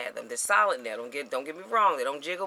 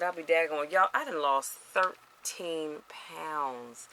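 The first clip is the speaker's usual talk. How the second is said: retold disbelief; slower than usual. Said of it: "I said".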